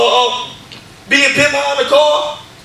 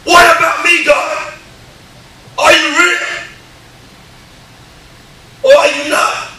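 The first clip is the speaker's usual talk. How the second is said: raised, drawn-out challenge to God; retold anger at God; slower than usual. Man retelling how he broke a laptop and challenged God, mad. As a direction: preach it as a mad, demanding plea. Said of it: "And I get mad".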